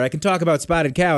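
light Wisconsin accent; hint of Midwestern Wisconsin twang. Shown as a demonstration. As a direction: put on a touch of Wisconsin. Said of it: "but I can g-, do Wisconsin".

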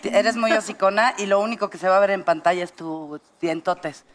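contemptuous. Retold or imitated. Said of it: "así súper despectivo el cabrón".

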